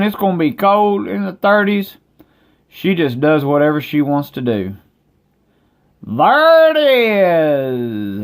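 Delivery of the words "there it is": excited. Real, not acted. Showing the snow outside.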